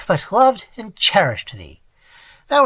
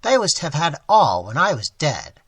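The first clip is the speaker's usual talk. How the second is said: put-on old man lamenting to the boy he raised; anguished plea; 3 semitones higher, 4 dB louder than usual. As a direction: plead with wounded love. Old man's anguished plea continues.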